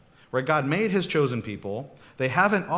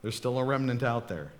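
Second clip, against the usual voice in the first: gentle calming; 5 dB quieter than usual. Retold or imitated. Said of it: "God would say to you".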